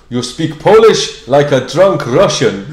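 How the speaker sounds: put-on slow, emphatic Polish accent; Artur. Polish workmate criticising the learner, slow Polish accent. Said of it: "this guy called Artur going".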